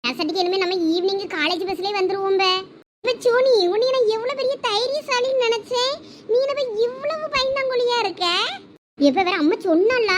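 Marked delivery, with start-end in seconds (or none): 3.0-8.3 mocking tease. Teasing a scared friend.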